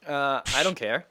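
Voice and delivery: slow, offhand answer; a touch of indifference; indifferent. Shown as a demonstration. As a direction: shrug it off. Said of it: "That's a good one".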